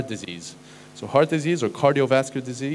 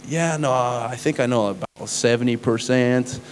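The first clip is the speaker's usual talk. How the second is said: slow, drawn-out American accent imitating a classmate; slower than usual. Imitating an American med school classmate, slow American accent. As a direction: put on a lazy American accent, unhurried. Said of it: "that's why I'm doing the accent".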